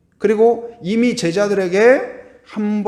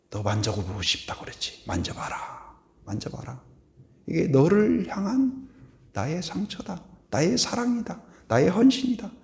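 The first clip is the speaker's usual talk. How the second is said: tender invitation; 6 dB quieter than usual. Retold or imitated. Jesus softly inviting Thomas to touch his wounds. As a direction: let him touch the wounds gently.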